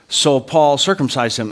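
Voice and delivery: slow, unremarkable Bible quote; matter-of-fact. Acted. Preacher quoting the Bible's brief account, matter-of-fact. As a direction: state it as a simple fact. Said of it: "the Bible just matter-of-factly says".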